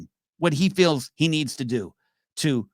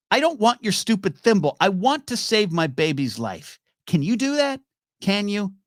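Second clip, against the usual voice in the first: higher, urgent rebuke; acted desperate challenge, pitched up; exasperated demand; 6 semitones higher than usual. Gilly pleading for her baby's life, exasperated. Gilly rejecting Sam, baby in danger.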